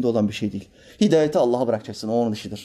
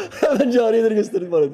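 mock sultan; 8 semitones higher, 3 dB louder than usual.

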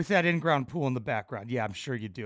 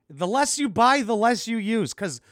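sarcastic paraphrase; 5 semitones higher, 4 dB louder, slower than usual. Retold or imitated. Sarcastic paraphrase of her claim.

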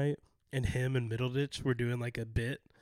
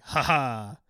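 mock laugh; 7 dB louder than usual. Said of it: "went like".

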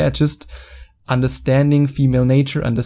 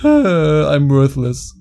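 mock despair; much slower than usual. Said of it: "you say".

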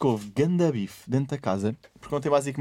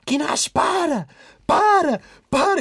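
Catarina Siqueira; 5 dB louder, much slower than usual. Retold or imitated. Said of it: "ouve-se a Catarina Siqueira".

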